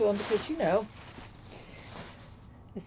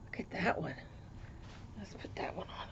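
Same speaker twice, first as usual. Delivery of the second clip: whispering; 3 semitones lower, 17 dB quieter, faster than usual. Real, not acted. Whispering over the gift.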